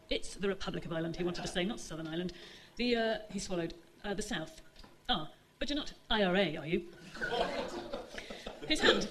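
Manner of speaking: measured reading voice for a novel; story narration. A narrator's reading. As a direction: read the chapter aloud to the audience. Author reads her novel aloud.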